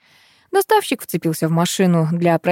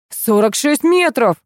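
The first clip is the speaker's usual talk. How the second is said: slow, loud announcement; proclaiming; 7 semitones higher, 5 dB louder, slower than usual. A narrator's reading. Deliveryman proclaiming the distance to the couple, slow loud announcement. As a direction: announce the figure slowly and loudly. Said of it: "провозгласил доставщик".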